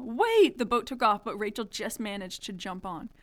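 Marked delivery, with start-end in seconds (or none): 0.0-0.6 higher, louder wait; mock scream. A narrator's reading. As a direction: call after the leaving boat, lightly. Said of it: "screamed Rachel".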